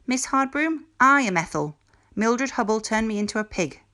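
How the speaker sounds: voz alta y aguda de acusación; acúsala triunfante; indignant tattle. A narrator's reading. Pig tattles to teacher.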